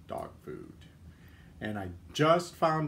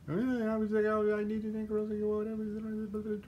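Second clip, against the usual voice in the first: reading a chat message; 9 semitones higher, slower than usual. Shown as a demonstration. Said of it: "That's me reading really fast".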